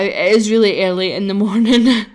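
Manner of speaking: talking through a yawn. Real, not acted. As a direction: say it mid-yawn. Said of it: "apologies for my yawning".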